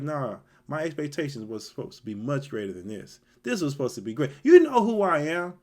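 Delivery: imitating an offended commander; indignant pride. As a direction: ham up his wounded pride. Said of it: "he's like".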